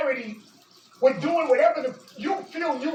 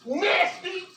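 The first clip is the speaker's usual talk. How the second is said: disgusted; 5 semitones higher than usual. Real, not acted. Furious name-calling.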